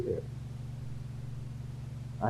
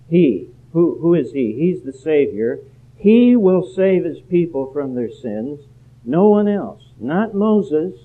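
rising preaching; 5 semitones higher, 6 dB louder than usual. Real, not acted. Preacher rising to full force.

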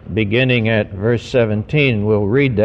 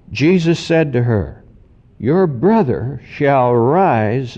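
measured, emphatic Bible reading from the pulpit; scripture reading. Acted. Preacher reads John's account of Martha and Jesus to the congregation, emphatic scripture reading. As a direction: read it out solemnly, with long weighty phrases.

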